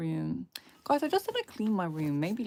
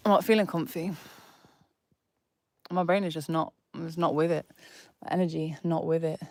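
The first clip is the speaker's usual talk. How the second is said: low energy. Real, not acted. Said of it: "my energy is not here".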